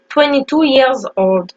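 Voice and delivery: YEARS with its final S clearly voiced, slowly; slow, careful S ending on YEARS; sounded final S. Shown as a demonstration. Teacher modelling an age sentence in English, sounded final S. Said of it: "bien prononcer le S".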